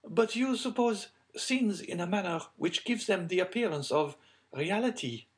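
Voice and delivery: high-pitched lady's voice; troubled lady. Acted. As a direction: protest in a high, ladylike voice. Plays Madame Danglars answering the count.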